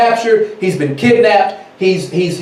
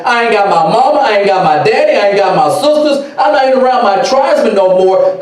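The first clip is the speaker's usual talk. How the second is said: raised, pressing voice of a captive; mock distress; 4 semitones higher than usual. Captured boy alone on the coast, mildly distressed.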